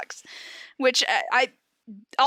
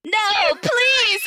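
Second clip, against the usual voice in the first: mock begging; 10 semitones higher, 4 dB louder than usual. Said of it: "I begged".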